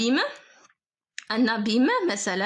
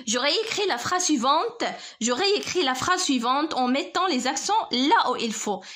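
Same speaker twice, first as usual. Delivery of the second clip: slow instruction reading; slower than usual. Shown as a demonstration. Teacher reads exercise instruction in French.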